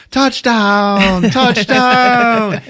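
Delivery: high, loud touchdown shout; triumphant yell. Retold or imitated. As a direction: celebrate like he scored. Tommy celebrating a bad kick.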